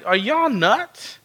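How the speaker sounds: incredulous ridicule, stretched out slowly; mocking God. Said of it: "He's making fun of them".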